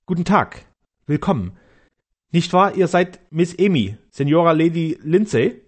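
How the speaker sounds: eager castellan. Acted. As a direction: greet the English lady with eager politeness. Castellan greets the lady.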